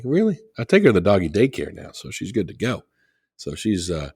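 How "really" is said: high, louder incredulous "Really?"; mock disbelief at the dog's chewing; exasperated disbelief. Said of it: "I'm like".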